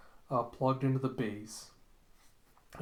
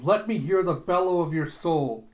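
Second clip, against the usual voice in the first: loud, raised theatrical command; commanding shout; 4 semitones higher, 8 dB louder than usual. Retold or imitated. Scientist demands the brain's answer, loud acted exhortation. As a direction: call it out like a stage villain.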